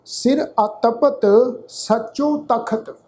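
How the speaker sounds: measured Gurbani reading, phrase by phrase; deliberate teaching recitation of sacred verse; scripture recitation. Shown as a demonstration. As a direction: recite with drawn-out vowels and pauses between phrases.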